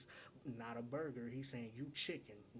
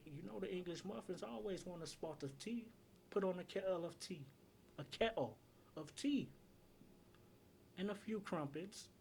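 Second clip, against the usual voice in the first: higher-pitched, playful British tea-time voice; mock British; 7 semitones higher than usual. Reviewer riffing on English muffins and tea, mock British. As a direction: put on a light, hammed-up British accent.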